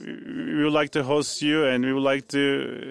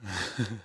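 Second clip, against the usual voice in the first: brief low chuckle; short, quiet laugh; soft chuckle; 7 semitones lower, 10 dB quieter than usual. Real, not acted. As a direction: chuckle softly to yourself. Lone laugh while waiting to speak.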